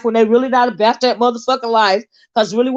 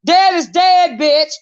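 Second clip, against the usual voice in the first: loud, higher, shouted rebuke; furious shouted dismissal; angry shout; 4 semitones higher, 4 dB louder, slower than usual. Real, not acted. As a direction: yell it at her, fed up. Ranting at the streamer.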